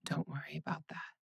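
reassuring whisper. Acted. Soothing partner in bed.

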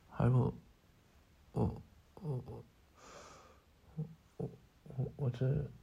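lost for words, voice dropping away; soft, helpless stuttering; flustered stammer. Acted. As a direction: trail off into faint, halting stammers. Flustered as the listener starts crying.

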